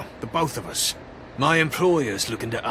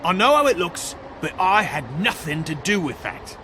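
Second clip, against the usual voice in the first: agitated; 5 semitones higher than usual. Acted. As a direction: insist nervously. Suspect pleads innocence.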